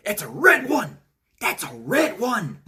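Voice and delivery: scared Venom. Retold or imitated. Venom points out Carnage to Eddie, a high frightened put-on voice. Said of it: "Venom's like".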